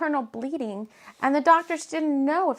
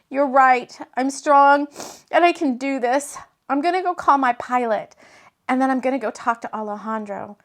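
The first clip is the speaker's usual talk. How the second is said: louder, steadier and resolved; more strongly; 2 semitones higher, 5 dB louder than usual. Acted. Jade steeling herself to go to Rob, stronger and louder. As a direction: pull yourself up and decide. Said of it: "she said more strongly now".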